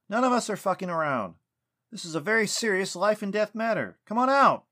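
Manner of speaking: high, loud demand building to a shout; angry yelling. A narrator's reading. Lucas ordering Sylvanus out of the tree, yelling. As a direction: yell in frustration, loudest on the final order. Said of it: "Lucas yelled".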